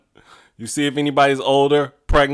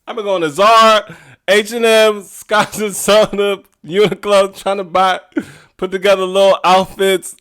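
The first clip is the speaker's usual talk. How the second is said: exasperated; 8 semitones higher, 5 dB louder than usual. Real, not acted. Listing fashion stores in exasperation.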